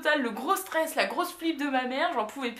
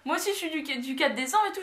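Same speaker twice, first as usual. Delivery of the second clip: cheerful policewoman; 6 semitones higher than usual. Retold or imitated. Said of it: "elle était toute contente".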